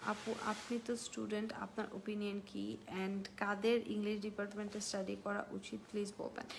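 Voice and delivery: quiet, fast, timid asking; hushed request to an older sister; a junior softly asking apu for advice; soft pleading student. Pretend. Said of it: "acted question to senior".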